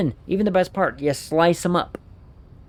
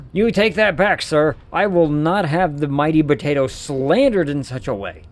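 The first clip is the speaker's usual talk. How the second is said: louder, hammed-up indignation; playfully furious at the slander; mock outrage; 4 dB louder than usual. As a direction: demand an apology like a wounded gentleman. Mock outrage defending the potato.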